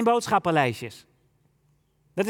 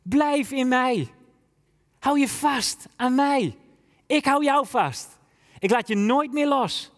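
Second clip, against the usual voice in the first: slow, tender Jesus voice a little higher; 3 semitones higher than usual. Acted. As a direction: speak as a loving Jesus holding on, slowly. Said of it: "Jezus die ons tot leven roept en zegt".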